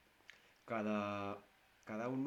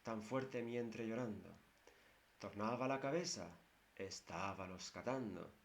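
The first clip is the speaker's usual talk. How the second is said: verse recitation. Shown as a demonstration. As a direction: recite the lines again, pausing at each half. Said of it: "Pero ven ustedes". (recitación pausada del cantar)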